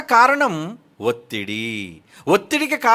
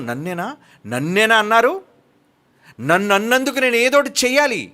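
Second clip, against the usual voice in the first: mock outrage; 4 semitones higher than usual. Preacher imitates a man angered by gossip, mock outrage. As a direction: play the offended man taking the bait, lightly. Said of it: "ఆవేశం".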